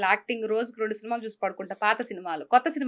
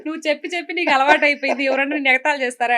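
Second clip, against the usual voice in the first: fast mock scolding from a husband; imitating husband; 2 semitones higher, 4 dB louder, faster than usual. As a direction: rattle off a husband's complaint, a touch raised. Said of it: "అంటాడు".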